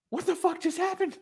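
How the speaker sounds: high, soft bewildered question; stunned disbelief. Retold or imitated. Fan recalling seeing fighter knocked out, high stunned question. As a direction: ask it in total disbelief. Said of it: "I'm like".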